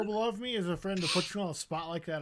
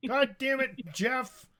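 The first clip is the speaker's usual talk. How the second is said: angry boss; 6 semitones higher than usual. Pretend. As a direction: yell at Jeff, firing him. Skit boss firing Jeff.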